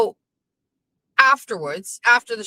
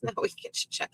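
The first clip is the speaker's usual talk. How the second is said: laughing; 14 semitones higher, 12 dB quieter than usual. Real, not acted. Laughing, unvoiced chat line.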